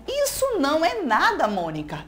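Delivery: a light hammed-up boast; exclaiming. Teacher voicing Cebolinha teasing Mônica, with a mild exclaiming lilt. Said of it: "Exclamação".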